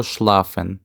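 шлафен said the German way; German word demo. Shown as a demonstration. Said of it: "читаються ось так". (шлафен німецькою вимовою)

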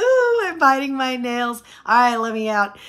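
desperate cry. Retold or imitated. Wife begging husband to stop the car, mock desperate cry. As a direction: wail it like you can't wait.

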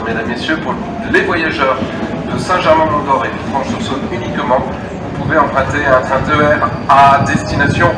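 station loudspeaker announcement; echoing public address voice; over a PA system. Real, not acted.

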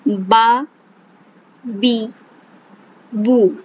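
बा, बी, बू read with measured vowels; ba bi bu drill. Shown as a demonstration. Teacher models the right reading of three vowels. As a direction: read बा बी बू evenly, each vowel clear. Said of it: "जल्दी से नहीं पढ़ना".

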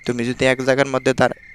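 furtive low hush, halting; speaking softly. Real, not acted. Gamer feeling like a thief sneaking in, very softly. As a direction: creep through the words like a sneak thief. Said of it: "এত আস্তে আস্তে কথা কইছি না".

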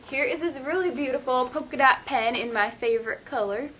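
slipping into a Southern twang; Southern accent. Real, not acted. Vlogger showing viewers a favorite pen, Southern accent. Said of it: "just got all southern on y'all".

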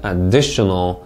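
"additional" with stress on DI; careful word stress. Shown as a demonstration. Teacher models "additional" for students, careful word stress. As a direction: stress the second syllable of "additional". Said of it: "강세 주의해서 잘 읽으셨습니까".

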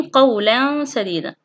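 slow قولا سديدا with held hum; tanween ikhfa. Shown as a demonstration. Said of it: "من التنوين". (إخفاء التنوين بغنّة في قولا سديدا)

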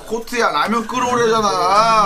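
high, loud, stretched-out nagging; impatient yell. Real, not acted. Ignored crew member orders ramen from a friend, impatient yell. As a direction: holler the ignored order, dragging it out.

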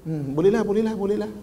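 mild, subdued giving in; reconsidered agreement. Acted. Person agreeing after three minutes' thought, relenting. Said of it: "Kemudian lepas tiga minit boleh fikir".

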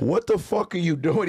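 can't believe what he's seeing; baffled trainer. Retold or imitated. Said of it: "he goes".

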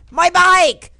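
very high, loud cry; dismayed shout. Real, not acted. Player losing his bike, high dismayed shout.

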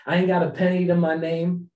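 Hamilton line. Retold or imitated. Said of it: "Hamilton sings this".

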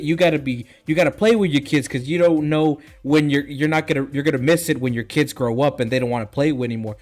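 mock scolding, insistent; lightly acted angry telling-off; mad wife. Imitating a wife scolding her husband about his kids, mildly angry. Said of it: "his wife is mad".

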